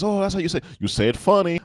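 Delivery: high-pitched mock realisation; imitated Spanish-speaking concierge. Concierge telling guest he says it oddly, high mock surprise. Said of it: "concierge has been Spanish or Latina descent".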